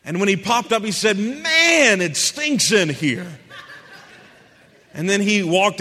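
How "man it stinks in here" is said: startled wake-up. Retold or imitated. Roommate waking up in the story, startled and disgusted. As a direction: jolt awake disgusted.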